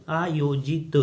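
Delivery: आयोजित broken into slow syllables, long aa first; a careful, stretched आयोजित for learners; drawn-out syllables. Shown as a demonstration. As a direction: sound out आयोजित as aa-yo-jee-t. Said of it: "आ की जो मात्रा होगी".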